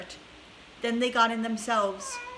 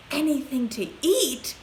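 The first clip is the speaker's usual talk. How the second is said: laughing cry; 4 semitones higher than usual. A narrator's reading. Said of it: "cried Charlie, laughing".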